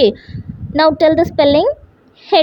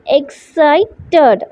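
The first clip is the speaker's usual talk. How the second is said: "Excited" in three beats, ex, ci, ted, with pauses; syllable by syllable. Shown as a demonstration. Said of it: "Three syllables".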